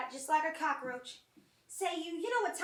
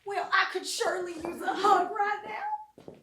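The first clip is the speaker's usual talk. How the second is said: slow, higher, louder play for sympathy; coy pleading; 5 semitones higher, 6 dB louder, slower than usual. Acted. Mourner asking the priest for a hug, coy pleading. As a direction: draw it out, angling for comfort.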